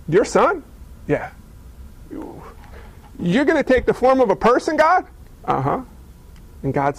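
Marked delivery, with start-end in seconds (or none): 0.1-5.0 astonished Gabriel. Acted. 5.4-5.8 calm God. Acted. God calmly confirms.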